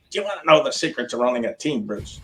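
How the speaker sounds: a light, quick imitation of a Chicago accent. Blackhawks owner Wirtz advising Bruce, light Chicago accent. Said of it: "in that Chicago Blackhawks accent of his".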